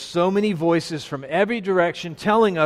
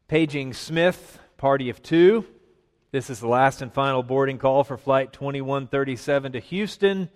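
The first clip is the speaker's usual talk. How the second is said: airport announcement. Pretend. Mock airport boarding call.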